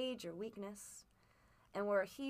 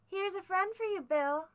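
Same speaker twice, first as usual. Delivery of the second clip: loud, high-pitched call; crying out; 11 semitones higher, 9 dB louder than usual. A narrator's reading. Blind man dictating what the boy must cry out, high loud call. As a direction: call it out as if to someone across a room. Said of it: "cried out the words he had ordered".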